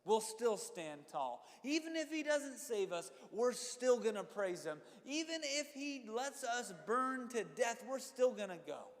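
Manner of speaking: loud, high, slow proclamation of faith; defiant declaration. Retold or imitated. Preacher voicing the friends' vow to the king, loud and slow. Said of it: "They say".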